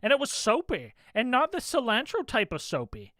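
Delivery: put-on lightly whiny valley-girl voice; a hint of a whiny cartoon princess; Lumpy Space Princess voice. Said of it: "you're nailing Lumpy Space Princess's voice".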